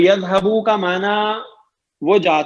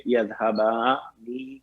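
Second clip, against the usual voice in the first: slow model word; 6 semitones lower, 8 dB quieter, much slower than usual. Shown as a demonstration. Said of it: "teacher models the dual form".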